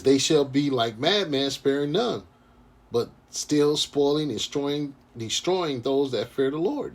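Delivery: slow, measured preaching read; scripture reading. Acted. Street preacher reads prophecy to his brothers, slow and solemn.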